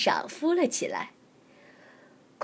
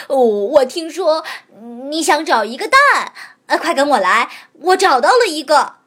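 louder, eager dog voice; excited dog; 3 semitones higher, 6 dB louder than usual. Acted. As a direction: hurry him along, thrilled. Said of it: "它激动地叫着".

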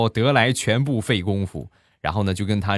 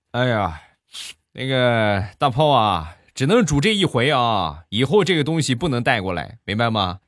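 raised, lecturing manager voice after a big meal; scolding manager; 5 semitones higher, 3 dB louder than usual. Retold or imitated. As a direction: wag a finger and scold like a full-bellied boss. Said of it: "一边打着饱嗝， 一边说". (吃饱了训人的经理腔)

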